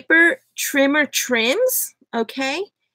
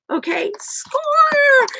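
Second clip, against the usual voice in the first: Eeyore impression; 13 semitones higher, much slower than usual. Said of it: "he talks like this".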